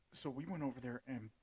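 burp caught mid-sentence; words pushed out around a burp; talking while burping. Real, not acted. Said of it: "sorry, I'm burping into the mic".

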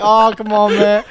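hammed-up outraged complaint; exasperated yell. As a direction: throw your hands up and yell it. Complaining after being pushed again.

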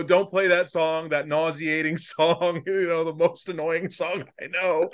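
reciting lyrics through real laughter; drawn-out words, cracking up along the way; laughing quote. Retold or imitated. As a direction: quote it while trying not to laugh. Laughing while quoting parody lyrics.

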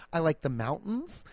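hammed-up bubbly profile voice; mocking dating profile. Mocking women's dating profiles, light bubbly parody. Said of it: "Everybody's online persona is being like".

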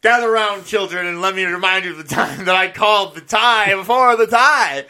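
put-on gather the kids round like an old sage. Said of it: "Vinny's gonna be like".

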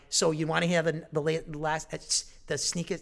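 tripping over the words from excitement; stuttering. Real, not acted. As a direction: stumble and restart the words. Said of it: "You got me stuttering".

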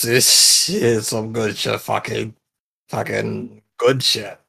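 slow, loose tipsy praise; giggly drunk. Acted. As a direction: drunk and loving the drink. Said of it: "I'm a little tipsy".

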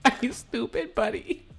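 amateur attempt at a Scottish accent; lightly put-on Scottish accent. Shown as a demonstration. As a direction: try a Scottish accent at an ordinary volume. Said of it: "This is a Scottish accent".

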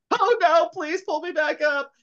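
high, hammed-up panicked plea; Jackie Wilson. Jackie begs from the balcony, mock terror. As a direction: wail it in a mock falsetto, drawing out the begging.

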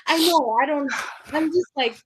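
high, tearful pleading; fighting through tears; crying. Real, not acted. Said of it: "not giving me a time to be emotional".

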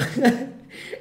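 short, loud burst of mocking laughter; imitated laugh. Reacting to the woman's accusation, imitated burst of laughter. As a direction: act out cracking up at the accusation. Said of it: "me cago de risa".

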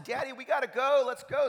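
mock urgent plea to get going; hurrying child. Daughter hurrying dad, retold.

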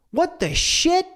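squeaky high burst of fake outrage; mock shock. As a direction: blurt it in playful disbelief. Mock shock at daily chores.

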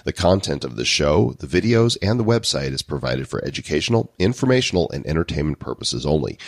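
brisk formal disclaimer reading. Acted. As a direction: read the legal fine print evenly. Reads legal disclaimer.

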